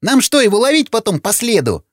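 very high, urgent shouting; frantic yell. Acted. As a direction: urge him on before it's too late. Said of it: "заорал Вячеслав". (истошно орёт, высоким голосом)

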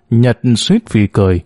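ordinary delivery, nothing marked

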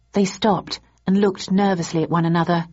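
usual speaking voice

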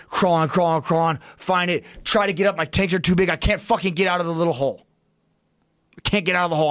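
mounting panic in the retelling; retold panic. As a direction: re-enact a frantic struggle to escape. Re-enacts panicked crawl to escape.

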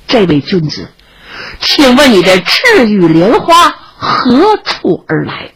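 formal, measured stage-like question; courteous inquiring child. Acted. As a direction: ask politely, stretching the words out ceremoniously.

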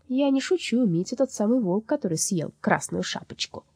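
patient. Acted. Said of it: "терпеливо сказала".

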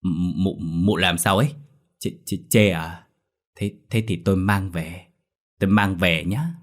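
stammering nervously. Acted. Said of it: "có chút run sợ rồi lên tiếng".

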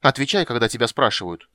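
put-on loud childish threat; a small girl playing stern; menacing command. A narrator's reading. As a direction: order him about like a princess. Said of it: "проговорила она грозно".

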